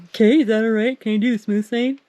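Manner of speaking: lightly voiced timid child asking mom; a hint of a small kid checking with mom; asking permission. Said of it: "I'm asking you like it's".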